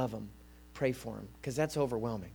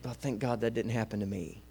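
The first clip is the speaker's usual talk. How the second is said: lower, softer aside to oneself; secret thought; 4 semitones lower, 6 dB quieter than usual. Acted. Churchgoer privately thinking of another's suffering, secret thought. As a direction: quietly voice a private relieved thought. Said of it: "secretly in our own mind".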